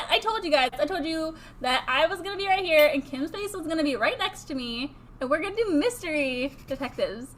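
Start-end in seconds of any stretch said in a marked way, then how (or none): none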